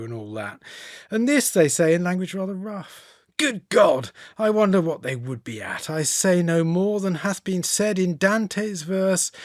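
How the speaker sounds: put-on light Regency accent, recited verse; a hint of a Regency gentleman reading; Byron in Regency accent. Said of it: "Lovely Regency accent".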